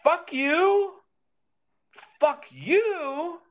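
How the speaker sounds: high, loud yelled curse; angry shout. Retold or imitated. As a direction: yell it at him in fury. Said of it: "all that I can think of getting out".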